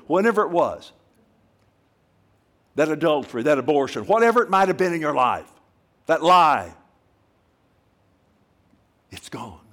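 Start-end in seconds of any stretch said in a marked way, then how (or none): 0.1-6.7 building to a loud preaching shout; rising shout. Real, not acted. Preacher to congregation, building to a shout. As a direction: crescendo of sins named to the crowd.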